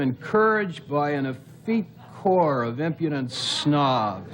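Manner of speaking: Spiro Agnew monotone. Acted. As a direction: drone it out like Agnew. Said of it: "Spiro Agnew had kind of a monotone voice".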